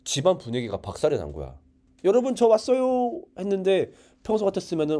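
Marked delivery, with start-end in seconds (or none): 2.0-3.2 high, slow call into a silent house; drawn-out calling. Retold or imitated. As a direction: stretch the call out, waiting for an answer. Repeats homecoming call, no answer.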